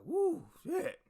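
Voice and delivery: sudden high yelp, then a rushed panicked mutter; mock panic. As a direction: act out the recruit's horror at the drill sergeant. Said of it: "But I was just like".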